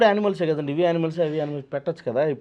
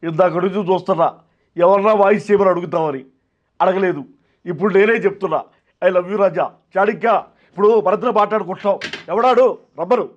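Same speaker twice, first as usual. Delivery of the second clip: loud, pushed filmy star voice; Posani impression; 4 semitones higher, 7 dB louder than usual. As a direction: belt it out like a hammed-up film actor, louder. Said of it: "Posani గారు".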